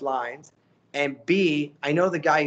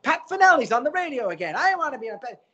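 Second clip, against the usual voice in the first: mock exasperation; 8 semitones higher, faster than usual. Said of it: "I'm like".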